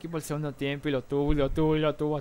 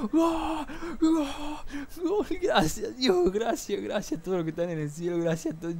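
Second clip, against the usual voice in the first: goal shout; 10 semitones higher than usual. Retold or imitated. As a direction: yell gol, then thank everyone in heaven. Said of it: "así que digo".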